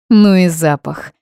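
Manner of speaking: loud growled exclamation; growling dog voice. Acted. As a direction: growl it out like a she-wolf. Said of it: "прорычала наконец".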